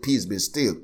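calm command. Retold or imitated. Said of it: "He didn't shout like them".

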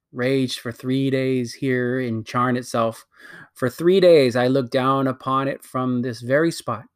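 lightly voiced imperious queen, bitter at her sister; a hint of a haughty queen, scornful; proud wicked queen. Queen justifies destroying her world, haughty. Queen recounts the last battle.

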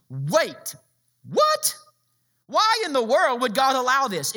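what shoots way up in disbelief; puzzled outcry. Pretend. Preacher voicing the reader's shocked question. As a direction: listener blurting out confusion. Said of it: "you should be asking".

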